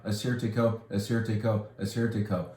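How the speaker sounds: teaching the name Assyrtiko to viewers; drilling the name. Shown as a demonstration. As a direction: repeat Assyrtiko like a pronunciation drill. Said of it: "We set it often enough".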